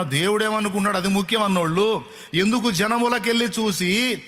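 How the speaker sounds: rising, insistent preacher's questions; fervent preaching. Acted. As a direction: press the congregation harder, line by line. (ఉద్వేగంతో ప్రసంగం)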